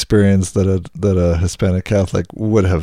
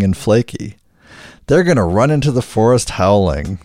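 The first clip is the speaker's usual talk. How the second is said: upbeat commercial voiceover; ad read. Acted. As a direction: sell it like a radio ad. Reads a mock sponsor ad.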